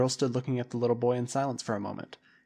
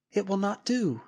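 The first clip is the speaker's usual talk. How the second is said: a higher, firm woman's voice; 7 semitones higher than usual. A narrator's reading. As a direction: shut the idea down. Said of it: "she said".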